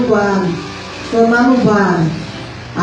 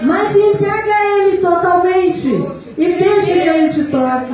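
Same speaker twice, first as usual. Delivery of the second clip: raised, insistent preaching pitch; 4 semitones higher than usual. Real, not acted. Urging the church to surrender totally to God, preaching. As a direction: press each phrase on the congregation.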